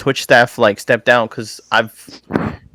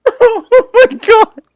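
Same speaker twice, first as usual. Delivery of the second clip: high, slow "oh my God"; stunned disbelief; 6 dB louder, much slower than usual. Real, not acted. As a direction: drag it out in disbelief. Reacting to the bank mix-up.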